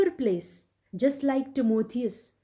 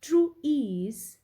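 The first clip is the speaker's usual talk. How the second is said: iambic reading, "True" unstressed, "ease" stressed; 2 semitones higher than usual. Shown as a demonstration. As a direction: draw out "ease" as the strong beat. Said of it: "You will read it out like this".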